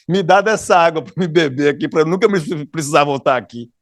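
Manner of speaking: ironic tone. Acted. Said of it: "o tom de ironia na voz dela".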